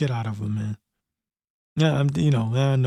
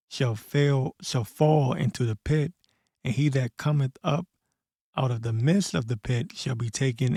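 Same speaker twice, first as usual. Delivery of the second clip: scripture reading. Acted. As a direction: read it like a preacher reciting scripture. Reads Isaiah scripture aloud.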